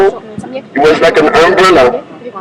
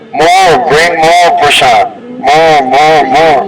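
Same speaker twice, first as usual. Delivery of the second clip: demanding more; slower than usual. Acted. Krishna demanding more prasad.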